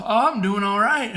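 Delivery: sighing, out of breath. Real, not acted. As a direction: breathe hard between words. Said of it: "something worse than me".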